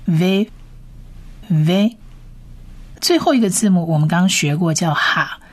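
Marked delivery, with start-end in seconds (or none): 0.0-2.0 v said as "veh", short vowel; v plus short A. Shown as a demonstration. Teacher adding the short vowel for learners, spaced "veh" for v. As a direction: sound out v as "veh", long pauses between. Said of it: "加上一个短A的音".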